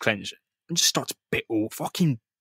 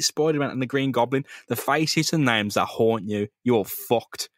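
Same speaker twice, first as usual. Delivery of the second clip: haunting threat. Retold or imitated. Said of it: "he keeps repeating it".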